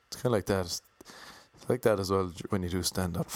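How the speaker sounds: level, unvaried delivery; monotone. Real, not acted. Comic musing aloud about stand-up, in a monotone. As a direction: keep the pitch in a narrow, even band. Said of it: "my monotones are awful".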